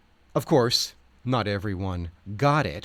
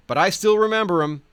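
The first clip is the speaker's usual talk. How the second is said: smiling; 8 semitones higher, 5 dB louder, faster than usual. Retold or imitated. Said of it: "Odom smiled to a friend".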